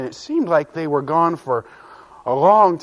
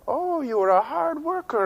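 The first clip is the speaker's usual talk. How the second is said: amused captain; 11 semitones higher than usual. Acted.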